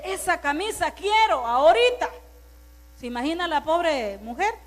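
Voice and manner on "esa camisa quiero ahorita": mock angry husband.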